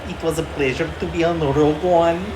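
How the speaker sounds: put-on Danish accent. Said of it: "your Boston accent".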